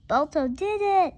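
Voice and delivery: loud, high cheer; triumphant exclaim. A narrator's reading. Driver cheers as his dog reaches safety, excited. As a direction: burst out in relief.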